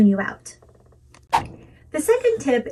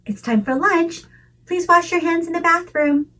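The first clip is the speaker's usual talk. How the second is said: kind direction; 6 semitones higher than usual. Shown as a demonstration. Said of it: "A direction can be added to that too".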